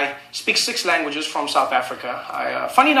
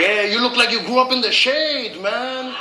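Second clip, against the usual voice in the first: imitated Spanish speaker; 5 semitones higher, slower than usual. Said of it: "He's like".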